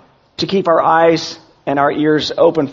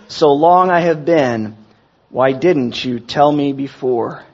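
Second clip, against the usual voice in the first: slow, solemn poem reading; slow recitation of a hymn's words; recited hymn lyrics. Acted. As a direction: read the verses out slowly like a poem. Reads song lyrics as a poem.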